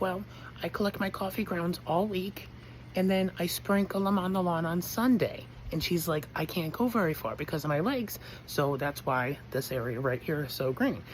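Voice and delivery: a hint of a chatty elderly woman; old lady neighbor.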